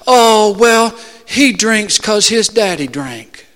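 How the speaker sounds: excusing inner voice. Acted. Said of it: "the reasoning voice that comes from within you".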